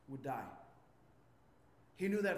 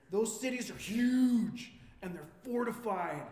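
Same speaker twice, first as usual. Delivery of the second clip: loud, slow, stretched-out awe; hammed-up report of huge cities; alarmed spy report; 2 semitones higher, 5 dB louder than usual. Spies reporting back to the people, hammed-up alarm.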